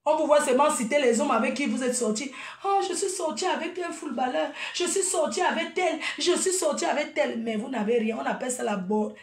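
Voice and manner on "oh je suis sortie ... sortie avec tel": mocking imitation. Mocking women bragging about exes.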